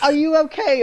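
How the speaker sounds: impression of Louise. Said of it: "doing an impression of Louise O'Connor".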